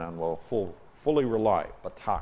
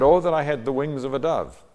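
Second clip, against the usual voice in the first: psalmist's cry; 7 semitones higher, 7 dB louder than usual. Acted.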